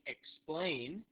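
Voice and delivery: drawn-out "explain" with a rise; careful single-word model; repeat-after-me model. Shown as a demonstration. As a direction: say "explain" slowly for learners to copy. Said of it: "so say that with me".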